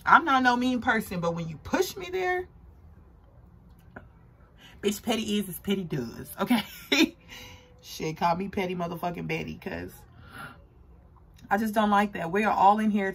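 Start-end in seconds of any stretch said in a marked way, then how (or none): 4.8-7.2 laughing. Real, not acted.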